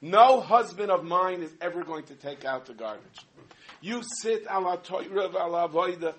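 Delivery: sudden loud no, then firm insistence; wife's indignant cry. Retold or imitated. Wife protests husband taking out garbage, loud indignant. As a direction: she refuses to let him touch the garbage. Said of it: "and she goes".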